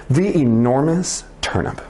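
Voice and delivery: lively, like a TV host hooking viewers; interested storyteller voice. Shown as a demonstration. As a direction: sell the title like a TV show. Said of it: "read with a "this is so interesting" voice".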